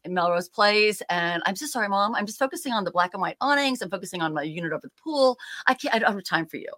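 mock-apologetic snark, quick at the end; a son's sarcastic brush-off, fast; snarky. Son brushing off his mom, mocking and snarky. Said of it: "very snarky".

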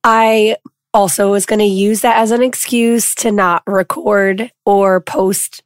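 lost voice, hoarse and rough; talking through a hoarse voice. Real, not acted. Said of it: "I lost my voice".

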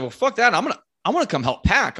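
lightly voiced friend on the phone, eager; eager buddy. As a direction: jump at the chance, fast. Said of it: "he's like".

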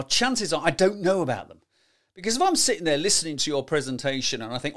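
usual speaking voice

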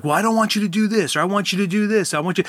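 playing the nagging parent she used to be; lecturing parent. Parent lecturing her kid in an escalated moment, mock exasperated.

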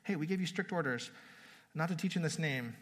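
a light mock scolding from the high priest; lightly wag a finger at them; mild scolding. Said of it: "they're scolding them".

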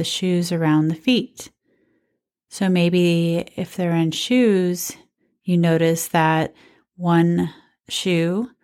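guided meditation. Real, not acted. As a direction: guide them gently through each sensation, leaving space. Leads a standing body scan.

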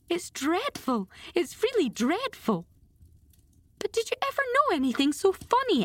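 high, giddy storybook gasping; gasping with laughter. A narrator's reading. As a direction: act a girl breathlessly amused, voice pitched right up. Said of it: "gasping with laughter".

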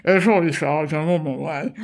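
lightly voiced hesitant policeman; a hint of a timid young officer; nervous young constable. PCSO voice.

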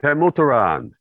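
"Pemutaran" in full syllables, Pe-mu-ta-ran; pronunciation demo. Shown as a demonstration. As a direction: say all four syllables of "Pemutaran", with "moo" and a long final "ran". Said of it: "How do you pronounce it?".

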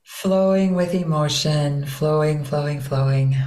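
flowing, connected water tone. Shown as a demonstration. Teacher echoing interviewer's phrase, flowing water voice. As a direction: let each word flow with emotion. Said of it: "So that's water".

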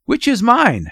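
high-pitched, anxious question; gasped question. A narrator's reading. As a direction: ask it with a nervous gasp. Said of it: "gasped Mister Button".

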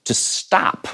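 whispered to stop, dropped soft; hushed. Shown as a demonstration. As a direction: breathe the words to stop. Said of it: "which literally means".

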